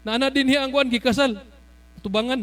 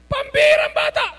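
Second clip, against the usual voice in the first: excited shout; 14 semitones higher than usual. Real, not acted. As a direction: shout it out in amazement. Preacher exclaims about child. (masayang sigaw sa tuwa)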